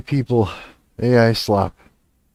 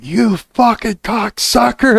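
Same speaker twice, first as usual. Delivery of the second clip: high-pitched, drawn-out angry yell; screaming insult; 12 semitones higher, 3 dB louder than usual. Retold or imitated. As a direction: reenact losing it, yelling high and slow. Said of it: "I ended up screaming and yelling".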